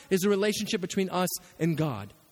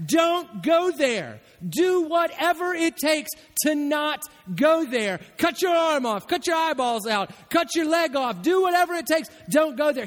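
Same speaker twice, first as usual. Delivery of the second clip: louder, higher, slow and pleading; urgent warning; 6 semitones higher, 4 dB louder, slower than usual. Acted. Preacher voicing Jesus warning his listeners, loud and urgent. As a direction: plead with them to stay away.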